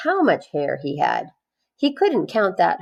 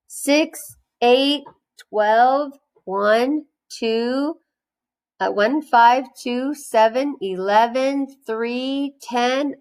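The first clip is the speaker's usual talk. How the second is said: Joe counting wrong; 6 semitones higher, slower than usual. Acted.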